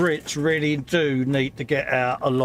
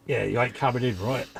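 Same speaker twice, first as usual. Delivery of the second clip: mock bouncer; 3 semitones lower, 3 dB quieter than usual. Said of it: "you've got a bouncer voice".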